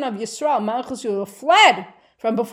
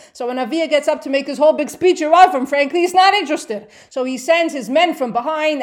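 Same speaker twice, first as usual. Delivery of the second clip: excited storytelling; 5 semitones higher, 7 dB louder than usual. Real, not acted. Teacher retelling the battle excitedly.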